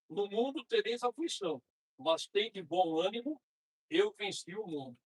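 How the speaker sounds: measured verse reading; scripture reading. Acted. Quoting Jesus on affliction to fellow believers, measured scripture reading. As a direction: read out the verse deliberately, phrase by phrase. Reads a Bible verse aloud.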